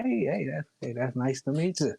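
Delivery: put-on made-up Minotaur accent, lightly done. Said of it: "I'm doing this accent in the Minotaur language".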